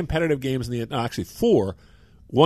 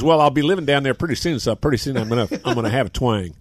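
laughing; 4 dB louder than usual. Retold or imitated. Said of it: "He laughed".

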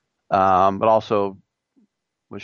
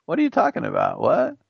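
high, incredulous "what"; mock disbelief; 6 semitones higher than usual. Galarraga hearing the blown call, stunned disbelief. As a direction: play Galarraga, stunned and smiling. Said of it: "he was like".

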